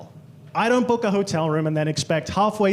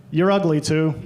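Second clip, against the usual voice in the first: blunt banter; 3 semitones lower, 3 dB louder than usual. Retold or imitated. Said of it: "he just went".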